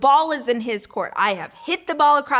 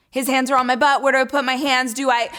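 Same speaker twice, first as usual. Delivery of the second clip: nervous babbling; 3 semitones higher, 4 dB louder, faster than usual. Retold or imitated. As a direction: blurt the inner questions out loud. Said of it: "I'm so nervous".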